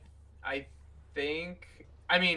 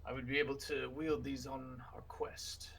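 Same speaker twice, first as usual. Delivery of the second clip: whispered request; 5 dB quieter than usual. Acted. Player whispers in character.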